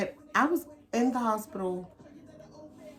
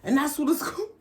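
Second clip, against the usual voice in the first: louder, higher retelling of her bright plan; mock loud announcement; 6 semitones higher, 5 dB louder, faster than usual. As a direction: belt it out like she's calling across the kitchen. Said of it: "talking about".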